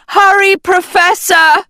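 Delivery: loud, high shout rising on Professor. A narrator's reading. A girl urging her teacher from above the cave, high rising shout. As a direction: call down into the cave, urgent. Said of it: "Agatha shouted into the cave".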